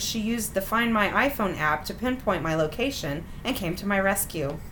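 measured, wry read-aloud of a personal story; story narration. A narrator's reading. Host reading out an embarrassing dating story, measured narration. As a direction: read it out neatly like a written memoir.

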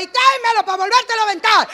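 high, loud and fast mother's yell; mock yell. Comedian's mother shouting for the sandal back, mock yell. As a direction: hurl it like an angry mom throwing a sandal. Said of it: "todavía me gritaba".

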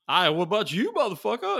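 high, loud mock-accented movie voice; yelling it out as the film character; quoting a movie character. Retelling the Hitman's Bodyguard scene in a loud movie voice. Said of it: "and he's like".

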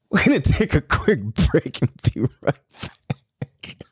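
hushed whisper to the mic; whispered sign-off before the break. Acted. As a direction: whisper the break announcement like a secret. Whispered show break line.

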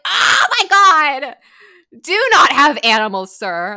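high, loud outraged cry; outraged exclaim. Retold or imitated. Scolding the boyfriend over his cats, with a high loud outburst. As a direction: shriek it at the absent owner.

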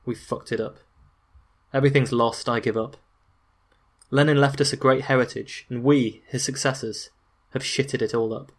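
understated bitter resignation; a touch of defeated bitterness; Stalin murmuring bitterly. Acted. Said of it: "and murmured bitterly".

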